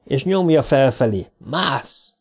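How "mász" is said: muted urgent order; understated yell. A narrator's reading. Dick pushes Trev up to the window, yelling. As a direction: urge the climb without volume. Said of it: "azt üvölti közben".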